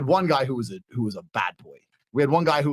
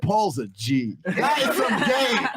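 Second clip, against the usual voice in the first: laughing admiration; 4 semitones higher, slower than usual. Retold or imitated.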